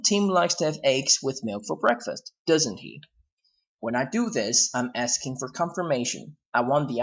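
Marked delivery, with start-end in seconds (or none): 0.0-3.0 "doesn't he" falling at the end; falling tag. Shown as a demonstration. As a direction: confirm it with a downward tag. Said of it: "You can lower your tone like this one".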